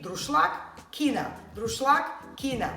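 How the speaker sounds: druszlak and quinoa chanted up high; druszlak, quinoa, like a teacher's drill; drilling the words. Shown as a demonstration. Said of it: "drilling the new words".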